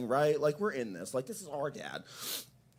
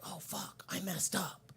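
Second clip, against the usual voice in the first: very soft, slightly raised mock panic; hushed dread; 3 semitones higher, 12 dB quieter, slower than usual. Driver nose to nose with helicopter, hushed dread. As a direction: shrink the voice as the mistake dawns.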